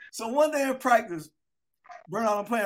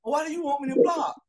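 higher-pitched puzzled question; mildly exasperated confusion; confused protest; 5 semitones higher than usual. Retold or imitated. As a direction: ask it as a baffled young player. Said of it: "I was confused".

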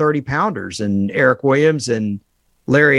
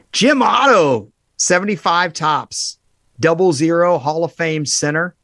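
announcer call; 5 semitones higher, slower than usual. Real, not acted. Announcing pulled card.

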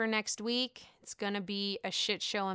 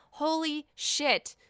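shocked; 5 semitones higher, slower than usual. Real, not acted. Shocked at the reveal.

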